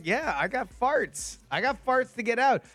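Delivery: high, slow goofy body voice; mock voice of his own gut; voicing his body. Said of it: "my body's like".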